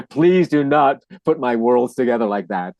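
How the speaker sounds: slow, drawn-out pleading, half laughing; emphatic mock plea. Retold plea to colleague.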